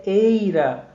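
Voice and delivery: "eira" drawn out slowly on the EI; stressed syllable. Shown as a demonstration. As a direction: stretch the "ei" of "eira". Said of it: "A sílaba tônica da palavra palmeira".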